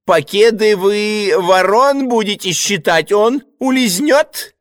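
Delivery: высоко и сипло, подозрительно; засипеть с подозрением, очень высоко; hoarse suspicious choirmaster. Acted. Голос регента. (регент сипит Ивану в ухо)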